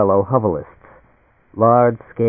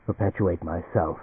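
low and much softer; quietly; 4 semitones lower, 11 dB quieter than usual. A narrator's reading. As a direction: let it fall away almost to nothing. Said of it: "said quietly".

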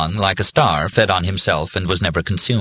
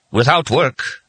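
higher, firm preacher's pronouncement; forceful padre, moderately emphatic; somewhat forceful; 7 semitones higher, slower than usual. A narrator's reading. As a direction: press the point home. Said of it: "in a somewhat more forceful voice".

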